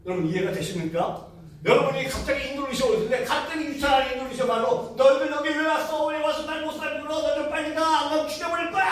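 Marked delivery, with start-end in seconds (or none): 5.0-8.9 preacher retelling a possessed sister yelling at the team, menacing; possessed screaming. Retold or imitated. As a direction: voice the demon lashing out at the missionaries. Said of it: "막 소리 지르기 시작합니다".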